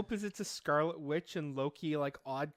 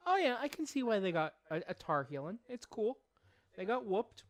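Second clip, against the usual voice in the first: mock fan voice; 4 semitones higher than usual. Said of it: "we go".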